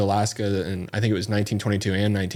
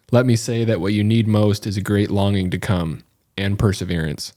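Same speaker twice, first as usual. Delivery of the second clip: cinematic voice. Pretend. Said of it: "maybe I should read it in a cinematic voice".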